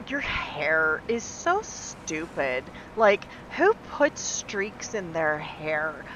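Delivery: slow, drawn-out sneering mimic of a mean girl; snotty mocking girl. Mimicking a patient mocking her hair, slow sneer. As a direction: drag it out like a bully sneering. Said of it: "she's like".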